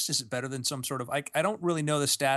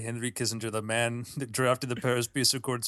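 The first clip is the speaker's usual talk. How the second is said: Kissinger impression; 4 semitones lower than usual. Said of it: "I can do a better Kissinger than that".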